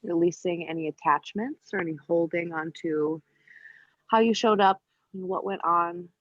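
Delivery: calm yoga teacher's cueing with long pauses; unhurried, evenly pitched meditation instruction; guided meditation. Real, not acted. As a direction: guide them gently into breath awareness, leaving space between phrases. Leads breathing awareness in yoga.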